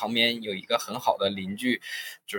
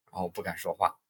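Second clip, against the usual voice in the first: whisper; 5 semitones lower, 7 dB quieter, faster than usual. Retold or imitated. Too scared to speak.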